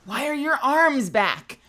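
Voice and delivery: slow, exasperated demand; fed-up slow repeat; annoyed repeat. Real, not acted. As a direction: spell it out to the game in irritation. Repeats question, frustrated.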